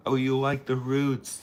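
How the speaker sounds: high "Oh, you like the roots"; high, pleased reaction. Real, not acted. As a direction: lift up at the compliment. Reading a compliment.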